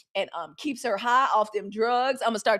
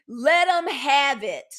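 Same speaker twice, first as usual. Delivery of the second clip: slow, dismissive send-off; 4 semitones higher, 7 dB louder, much slower than usual. Real, not acted. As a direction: wave them off slowly.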